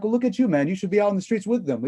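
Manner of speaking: high, needling dare to a friend; pointed ribbing of a Palestinian buddy; mock challenge. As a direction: tease him into seeing his own logic. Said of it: "I basically laid bare to him".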